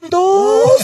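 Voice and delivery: put-on high, shocked kid's voice on ¿Dos?; surprised kid. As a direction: turn and squeak out disbelief. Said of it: "Y mi hijo volteó".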